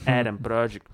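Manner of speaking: American accent. Shown as a demonstration. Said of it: "я там использовал американский акцент".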